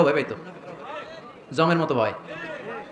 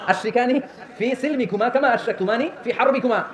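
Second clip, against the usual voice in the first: slow, phrase by phrase, higher pitch; measured Arabic recitation; 4 semitones higher, slower than usual. Acted. Preacher repeating Abu Bakr's Arabic request, measured spoken recitation. Second take, recited without the chant.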